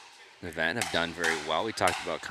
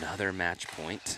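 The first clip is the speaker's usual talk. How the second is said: softer, near-whispered match call; hushed commentary; 5 dB quieter than usual. Real, not acted. Commentator announcing another match point, hushed. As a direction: keep it down as play is about to start. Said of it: "I don't know why I'm whispering".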